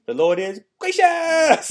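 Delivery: put-on high, loud, slow toddler yell; little son's shout. Dad imitating his baby son shouting the verse, high toddler yell. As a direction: belt it out like a tiny boy proud of his verse. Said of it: "And he would say it just like that".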